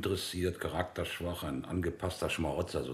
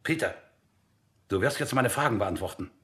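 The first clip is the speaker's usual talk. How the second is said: demanding shout; 9 semitones higher, 9 dB louder than usual. Acted. Interrogation, commanding the prisoner.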